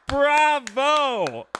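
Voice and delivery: high, loud, drawn-out bravo; loud cheer. Acted. Streamer applauding Berlande for joining, loud hammed-up cheer. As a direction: call it out big and high.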